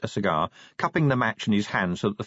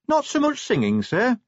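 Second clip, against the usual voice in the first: put-on much higher, young dwarf officer voice; dwarf officer reporting; 13 semitones higher than usual. Cheery reports to the commander on the dwarfs, high and brisk. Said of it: "Cheery reported".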